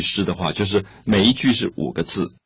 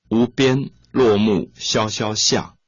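slow poem recitation; slower than usual. Shown as a demonstration. Teacher recites a Tang poem line.

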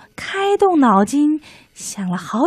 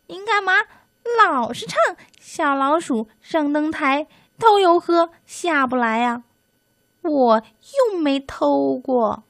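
high squeaky complaining mouse; little mouse voice; 6 semitones higher than usual. Acted. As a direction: protest in a tiny high voice.

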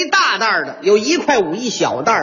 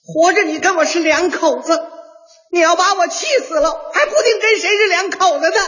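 shrill raised scolding wife, pitched higher; 6 semitones higher than usual. Retold or imitated. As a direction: snap at him like an angry wife. Wife quarrelling, voiced by husband.

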